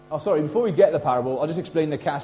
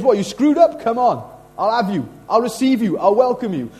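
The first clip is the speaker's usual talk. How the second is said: loud, raised, open-armed welcome; emphatic welcome; 5 semitones higher, 5 dB louder than usual. Acted. Jesus welcoming screwed-up people, emphatic and inviting. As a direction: call them in with high, strong energy.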